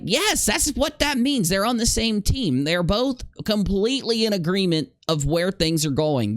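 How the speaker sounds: high, exasperated spelling it out. Real, not acted. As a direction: talk like it's painfully obvious. Exasperated explaining the obvious.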